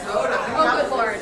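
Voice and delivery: surprised. Real, not acted. Reacting to Minnesota school.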